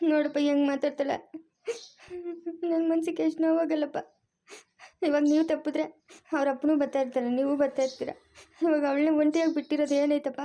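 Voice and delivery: hurt plea through light sobs; tearful. Acted. Mother complains to grandfather about daughter's words, tearful. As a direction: choke up a little, sniffling between phrases. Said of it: "ಅಳ್ಬೇಡ ಸುಮ್ನಿರು".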